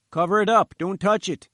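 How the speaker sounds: quoting the professor. Retold or imitated. Engineer mimics the professor's order to cover the rock, mock sharp. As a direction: bark the professor's order as he remembers it. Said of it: "said the professor".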